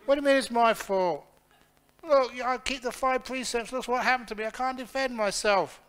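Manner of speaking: high, loud, indignant wail, voice way up; a beaten snake protesting its unfair fate; wronged snake's outcry. Acted. Bad snake protests to the holy snake, high loud indignant wail.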